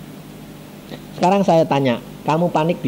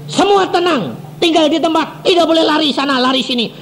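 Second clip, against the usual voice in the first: raised, firm orders to a crowd; calm the crowd with a firm raised voice; commanding call; 9 semitones higher than usual. Retold or imitated. Preacher orders panicking passengers to stay put, raised and firm.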